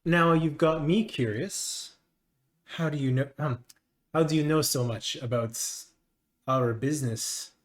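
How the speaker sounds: a hint of a probing official; measured, halting questioning in character; lightly voiced haughty master. Master questions a stranger about their business, lightly haughty.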